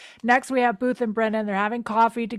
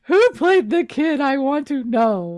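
eager; 7 semitones higher, 6 dB louder than usual. Real, not acted. Eager to find actor.

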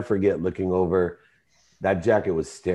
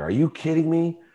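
reliving the fight with his wife, pitched way up; retold screaming; 8 semitones higher than usual. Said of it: "I screamed at her".

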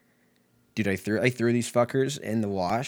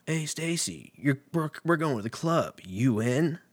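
higher-pitched mock sitcom voice; hammed-up high voice of a sitcom pal; nineties sitcom friend; 6 semitones higher than usual. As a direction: put on a perky sitcom invite.

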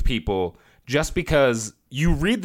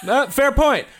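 laughing; 10 semitones higher, much slower than usual. Real, not acted. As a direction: concede it while laughing. Laughing concession.

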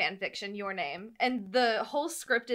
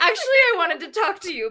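rushed read; 7 semitones higher, 10 dB louder, much faster than usual. Acted. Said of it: "Just read it".

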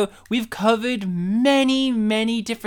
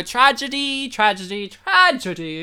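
mock lament; 3 semitones higher than usual. Mock lament over not learning Polish.

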